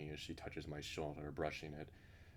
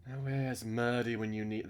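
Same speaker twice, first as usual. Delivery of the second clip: put-on higher, louder British accent; British accent, calling out in a raised voice; Missus Burns; 5 semitones higher, 6 dB louder than usual. Missus Burns wondering where Murdy is, in a British accent. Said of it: "giving her a British accent".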